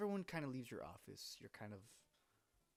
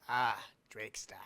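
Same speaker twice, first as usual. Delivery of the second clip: whisper; 9 dB louder, slower than usual. Acted. Shopkeeper whispering greeting.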